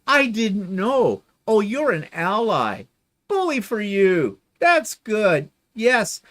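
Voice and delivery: sugary sarcastic reading of a comment; sweet and condescending, dripping with mock pity; mocking a patronising commenter; mock sympathy.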